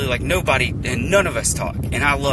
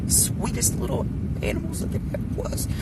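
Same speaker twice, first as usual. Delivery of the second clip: cutesy voice; 9 semitones higher, 6 dB quieter than usual. Real, not acted. Describing the happiest little animals.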